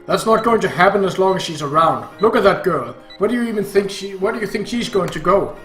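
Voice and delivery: loud, heated father arguing; angry dad shouting in a quarrel; irritated shouting. Acted. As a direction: raise your voice in exasperation. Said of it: "Dad got irritated and started shouting".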